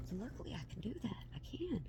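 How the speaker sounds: soft unvoiced whisper. Real, not acted. Mom whispering an aside to viewers. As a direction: whisper it like a secret.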